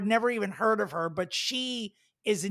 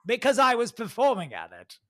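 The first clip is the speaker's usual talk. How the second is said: put-on British accent; 3 semitones higher, 3 dB louder than usual. Mocking the club owner to her co-host, light British accent. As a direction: slip into a hint of a British accent. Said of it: "I did use a British accent there".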